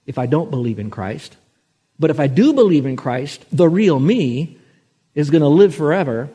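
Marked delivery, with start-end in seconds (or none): 2.0-6.3 fervent preaching. Acted. Preacher to congregation, fervent proclamation. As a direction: proclaim it with fire. Climax of sermon point.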